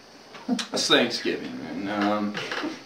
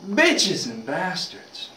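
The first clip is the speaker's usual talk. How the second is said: slow, higher-pitched pained swearing, lightly acted; mock cursing; 5 semitones higher, 3 dB quieter, much slower than usual. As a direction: drag out the curse like you hit your thumb. Father curses after whacking thumb.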